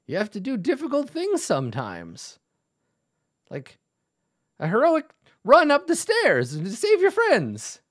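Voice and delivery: hammed-up heroic pep talk; old dwarf urging. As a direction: cheer the hero up the stairs.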